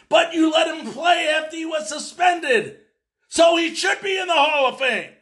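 high-pitched, insistent protest; indignant argument. Real, not acted. Arguing hotly for a banned player.

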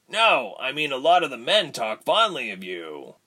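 furtive grin. A narrator's reading. Tyke compliments Ilse, lightly grinning voice. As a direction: say it with a slight sly grin. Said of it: "grinning furtively".

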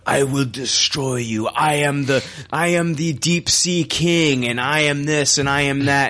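a hint of a grandiose villain; lightly hammed evil monologue; megalomaniac rant. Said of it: "their evil villain monologue".

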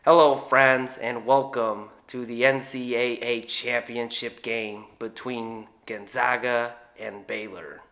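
lightly imitated TV announcer, drawn out; Jim Nantz impression. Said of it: "Uh, we'll do basketball".

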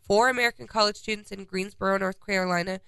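stuffy, blocked nose; congested. Real, not acted. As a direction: talk through a head cold. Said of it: "listen, I'm really congested".

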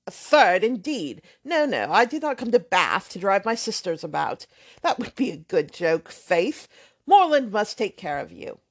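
put-on brash, offhand young man swearing lightly; blustering braggart.

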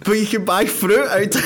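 high, hammed-up amazement; teasing a friend's amazement at the fruit; mock amazed. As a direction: play a friend's naive wonder, pitched high. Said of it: "you were like".

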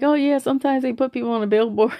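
high-pitched, breezy quoted reply; imitated social worker. Social worker explains the billboard, imitated breezy reply.

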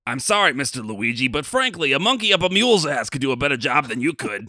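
director dressing down an actor, loud and cutting; stern director. Acted. Director rejecting Luigi's audition, in a stern mock voice. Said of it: "role of the director here".

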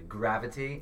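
gravity said with a light British accent; a touch of British on gravity. Real, not acted. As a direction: let a hint of British color gravity. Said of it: "You were thinking in a British accent".

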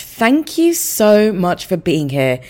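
loud, shaky voice with a sore throat; a wobbly, unsteady voice. Real, not acted. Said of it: "if I sound a bit shaky".

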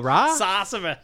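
"Sassava" for sorcerer, r's dropped; Boston pronunciation. Acted. Answering what a sorcerer is, "Sassava" in Boston accent. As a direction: say "Sassava" with broad Boston vowels and no r. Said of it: "the Boston version".

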